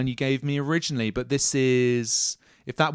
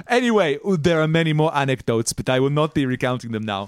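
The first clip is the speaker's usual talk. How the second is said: captain Gruner; 4 semitones higher than usual. Acted.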